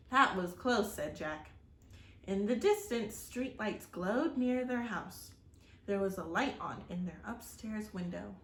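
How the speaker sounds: steady, expressive read-aloud storytelling; story narration. A narrator's reading. Reading a storybook aloud to children, expressive narration. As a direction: tell the chapter to young listeners.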